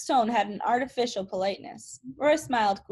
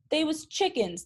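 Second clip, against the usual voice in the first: higher mock bellow after a fleeing boy; 6 semitones higher than usual. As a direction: shout it after the kid riding off. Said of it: "the bald guy bellowed after him".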